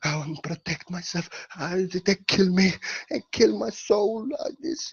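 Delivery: hammed-up fearful plea; breathy pretend panic; mock afraid. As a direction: play scared for your life, half in jest. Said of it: "They want you to be afraid. They want you to be like".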